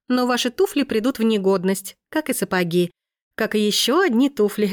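brisk, lively street fortune teller. Acted. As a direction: hawk the prophecy like a market fortune teller. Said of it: "воскликнула, как настоящая гадалка на площади".

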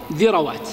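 ذروات said dhirawāt, short a after the r; middle opened with a. Shown as a demonstration. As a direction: put an a between r and w in ذروات. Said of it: "إما التسكين أو الفتح". (ذروات بفتح الراء)

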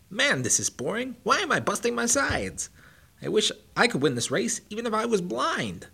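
high, loud, mocking hare; cocky hare voice. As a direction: taunt him like a bratty show-off. Bucky bored mid-race.

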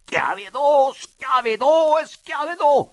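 high, loud cry of outrage; indignant repeated shout; quivering indignation. A narrator's reading. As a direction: drag out each repeat in scorn. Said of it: "atteggiato di sdegno fremette".

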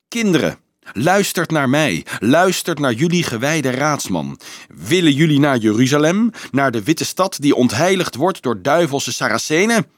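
lifted, insistent appeal to a crowd; rally them with a ringing question; rousing oration. A narrator's reading. Monk calls the children to Jeruzalem, rousing oration.

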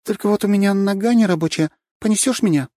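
put-on high, coy little-girl plea; coy Katya. A narrator's reading. Katya coyly asking Bigby to carry her. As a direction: play helpless and coy.

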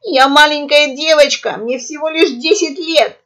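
high, loud panicked pleading; hysterical cry. A narrator's reading. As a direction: cry out like a frightened child. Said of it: "истерично выкрикнула орлица". (истеричный выкрик)

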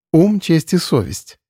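slow wry smirk. Acted. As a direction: say it with a sardonic smirk. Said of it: "усмехнулась Лера".

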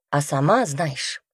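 usual speaking voice

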